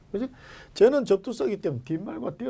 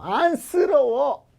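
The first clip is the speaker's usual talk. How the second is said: high, loud, very slow pitying wail; hammed-up pity; mock pity; 11 semitones higher, 7 dB louder, much slower than usual. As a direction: stretch it out like a sorry sigh.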